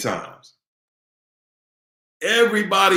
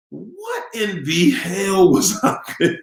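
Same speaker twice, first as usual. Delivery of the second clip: mock disbelief. Quoting the chat's regret.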